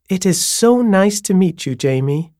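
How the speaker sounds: a bright, high welcome with a rise at the end; lilting landlady. A narrator's reading. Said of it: "the way her voice went up at the end of each sentence".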